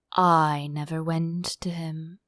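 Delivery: sighing. Acted. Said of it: "said with a sigh".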